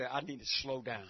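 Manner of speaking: low, quiet, pulled-back phrase; soft slowed delivery. Shown as a demonstration. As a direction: bring it right down and hush. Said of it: "I would say".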